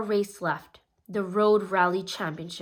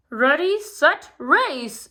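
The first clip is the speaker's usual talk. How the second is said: loud, higher race start call; 6 semitones higher, 6 dB louder, slower than usual. A narrator's reading. Mayor Goodway starting the race, loud and high. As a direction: shout the start like a race official. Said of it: "said Mayor Goodway".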